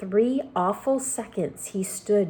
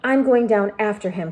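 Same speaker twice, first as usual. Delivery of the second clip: determined cry; 5 dB louder than usual. Acted. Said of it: "cried James".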